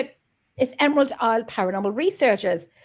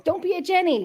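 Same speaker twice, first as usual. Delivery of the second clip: catchphrase "Don't be a Jenny" sung out high; high teasing singsong; 7 semitones higher than usual. Pretend. Teasing her friend Jenny with the catchphrase, high and sing-song.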